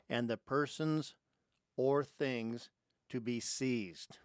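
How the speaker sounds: slow, emphatic reading in measured chunks; formal reading aloud. Real, not acted. Host reading the Fourth Amendment to listeners, slow and emphatic. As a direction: read it deliberately, pausing after each phrase.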